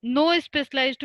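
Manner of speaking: slow, spaced words for note-taking; dictating slowly. Shown as a demonstration. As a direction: let them write each word. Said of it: "definition of fungi". (धीरे लिखवाना)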